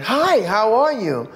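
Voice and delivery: sing-song, drawn-out mock hello; breezy greeting. Israeli singer greets her in passing, breezy imitation. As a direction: greet breezily, stretching the words.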